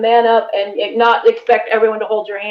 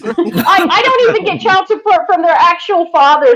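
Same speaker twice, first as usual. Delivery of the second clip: higher, laugh-tinged comeback; amused retort; 6 semitones higher than usual. Real, not acted. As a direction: toss it back through a laugh, pitched up. Joking retort amid shared laughter.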